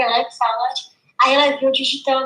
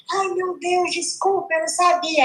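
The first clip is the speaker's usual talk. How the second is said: embarrassed apology; 4 semitones higher than usual. Retold or imitated. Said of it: "Aí fica toda sem graça".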